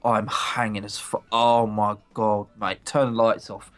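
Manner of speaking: Essex boss impression. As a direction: mimic a groaning Essex boss the morning after. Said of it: "that little Essex accent I was doing".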